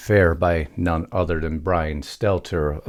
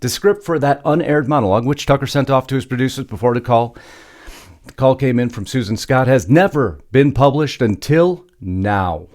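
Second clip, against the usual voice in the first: raised, louder news-script delivery; news story read; 5 semitones higher, 4 dB louder than usual. Acted. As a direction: read the script out with punchy emphasis.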